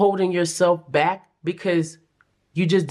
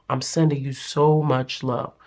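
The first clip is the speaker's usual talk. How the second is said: tender; 6 semitones lower than usual. Real, not acted. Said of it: "repeated softer".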